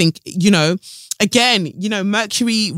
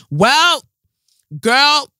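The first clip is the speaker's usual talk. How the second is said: sassy call-out; 9 semitones higher, 6 dB louder than usual. Real, not acted.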